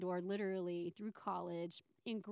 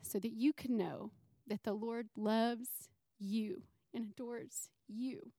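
tearful. Real, not acted. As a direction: voice close to tears, whispering at times. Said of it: "and I'm gonna try not to cry".

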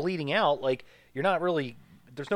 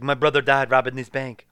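badly faked French accent; louder, half-hearted attempt at a French accent; failed French accent; 2 semitones lower, 5 dB louder than usual. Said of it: "I cannot do the French accent".

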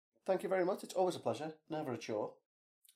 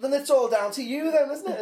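high mocking quote; 13 semitones higher, 7 dB louder than usual.

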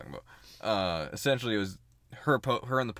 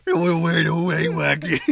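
heavy gas voice; 3 semitones higher, 5 dB louder than usual. Acted. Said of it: "You've got a deep ass voice now".

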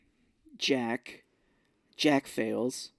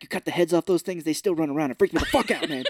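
mock freaked out rant; 3 semitones higher, 5 dB louder, faster than usual. Voicing Gnome King about chickens.

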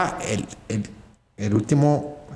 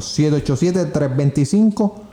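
slow, deliberate phone number; reading digits one by one; slower than usual. Shown as a demonstration. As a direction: stretch out each digit. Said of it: "Repito el número".

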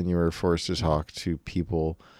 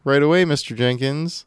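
operator; 5 semitones higher than usual. Acted. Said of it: "And she'll say".

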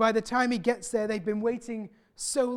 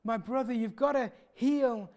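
mild anguished cry for help; tearful pleading; 2 semitones higher than usual. Retold or imitated. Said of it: "they're crying out".

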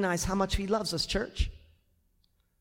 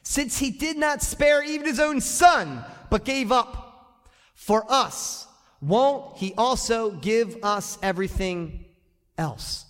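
louder scripture; 4 semitones higher, slower than usual. Shown as a demonstration. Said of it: "Read that".

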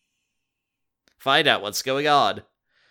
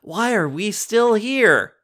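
alarmed cry; 10 semitones higher, 7 dB louder, slower than usual. Acted. Jordan panics.

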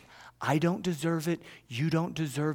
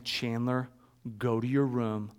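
retold parental summons; 4 semitones lower than usual. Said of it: "This was like, he's in trouble".

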